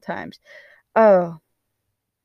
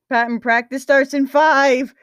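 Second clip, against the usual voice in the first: raised, higher call; coach's yell; 5 semitones higher, 5 dB louder than usual. A narrator's reading. Coach calls Patton to practice, yelling. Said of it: "the coach yelled".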